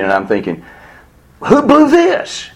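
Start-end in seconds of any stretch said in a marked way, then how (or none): 1.4-2.5 high-pitched, drawn-out exasperated demand; indignant. Retold or imitated. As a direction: reenact an outraged inner protest. Retelling his angry thoughts about doctors.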